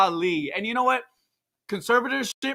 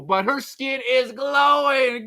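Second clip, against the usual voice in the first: mock shout; 3 semitones higher, slower than usual. Mock-emphatic punchline.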